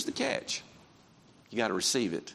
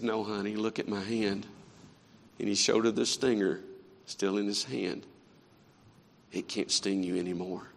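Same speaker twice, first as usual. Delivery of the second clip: reassuring father; 4 semitones lower, 5 dB quieter than usual. Retold or imitated. Father calming frightened daughter.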